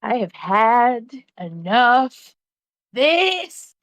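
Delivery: slow, drawn-out exasperation; fed up. Acted. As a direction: draw it out, mock fed-up. Player fed up with the enemy.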